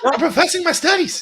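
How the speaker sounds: high, loud, hammed-up indignation; Mark Wahlberg impression. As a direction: push it high, as a baffled movie actor. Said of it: "says every single line the same way".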